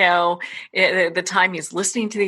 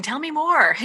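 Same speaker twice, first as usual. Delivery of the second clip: higher, coaxing imitation of an eager mother; lightly voiced curious mom leaning in; mother secretly urging her daughter on, a higher coaxing voice; 8 semitones higher than usual.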